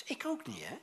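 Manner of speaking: whispered confession. Acted. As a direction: whisper it like a secret admission. Confessional aside to congregation.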